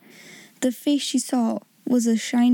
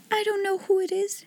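high, soft, teary voice; crying over a kind note; a little girl speaking through grateful tears; tearful girl; 9 semitones higher, 4 dB quieter than usual. Acted. Sarah crying.

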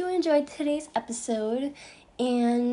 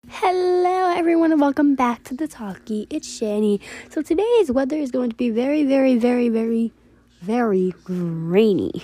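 loud, fast, hammed-up weather report; loud goofy intro; 7 dB louder than usual. Host clowning a weather forecast for listeners, loud. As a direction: shout the forecast, piling up very.

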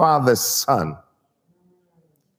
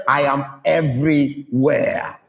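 slow, deliberate fatherly warning; pointed, slow parental threat; close-up warning. Acted. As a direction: measure out each word, close to the child. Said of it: "I kind of squint close to him".

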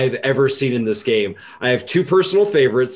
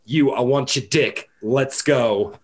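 put-on old New York lady; slower than usual. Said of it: "turn into a sixty-year-old Jewish woman".

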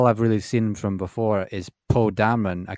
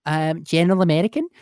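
lightly voiced timid answer, higher and rising; hesitant candidate; 7 semitones higher than usual. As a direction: imitate a candidate answering uncertainly. Retold girl answering the auditioner.

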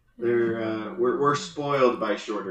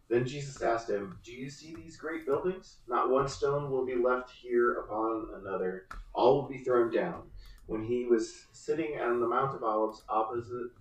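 scripture reading. Acted. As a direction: read it like a lesson in church. Reads the gospel passage aloud.

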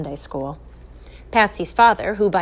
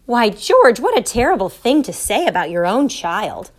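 louder, scandalized mother; indignant rebuke with a lifted start; shocked reproach; 3 semitones higher, 4 dB louder than usual. Acted. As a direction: scold him, mildly aghast. Mother scolds father's remark.

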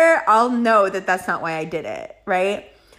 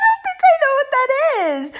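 high, squeaky laugh-talk through the words; flustered laughing reply; laughing while talking. Real, not acted. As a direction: giggle out the answer, embarrassed. Embarrassed answer, high laughing.

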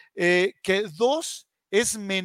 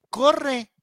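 retold yell; 7 semitones higher than usual. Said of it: "le gritan".

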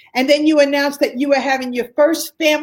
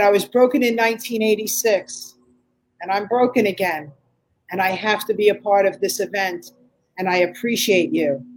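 calm sincere plea; 4 semitones lower than usual. Retold or imitated. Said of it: "not crying, not whining".

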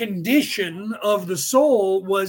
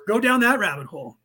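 usual speaking voice

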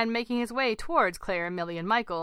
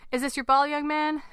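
higher, friendly question with a smile; smiling; 7 semitones higher, 5 dB louder than usual. A narrator's reading. Man asking a toddler about his ball, smiling. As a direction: ask it with an audible smile, pitched up. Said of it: "Terry asked with a smile on his face".

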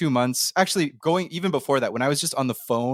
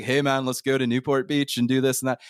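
lightly done laid-back California accent. Shown as a demonstration. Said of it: "The California accent is like".

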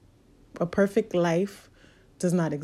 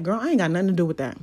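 fast, dismissive devil brushing off blame; sassy devil; faster than usual. Retold or imitated. Devil quickly refuses blame for your roadblocks, sassy and brisk. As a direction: rattle it off like a devil shrugging off blame. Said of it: "the devil's looking at me like".

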